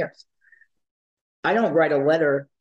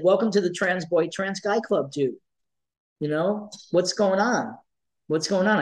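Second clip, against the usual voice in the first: upbeat greeting; 4 semitones higher than usual. Retold or imitated. Greeting twelve-year-old boy warmly.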